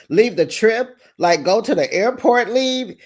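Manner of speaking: high, loud disbelief at leaving the trip; shocked, echoing the word leave; incredulous. Retold or imitated. Heather shocked that they must leave the trip. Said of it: "And Heather's like".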